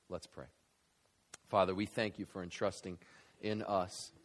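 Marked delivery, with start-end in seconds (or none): 1.5-4.1 closing prayer. Acted. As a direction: pray earnestly over the church.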